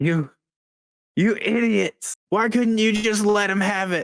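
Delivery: very high voice, close to tears. Voicing a character who starts crying a little: NPC crying a little. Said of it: "he's gonna start crying a little bit".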